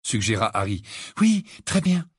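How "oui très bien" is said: slightly high, tired assent; weary agreement. A narrator's reading. Hermione agreeing to wait till tomorrow, weary. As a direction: agree wearily, with little energy. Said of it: "approuva Hermione d'une voix lasse".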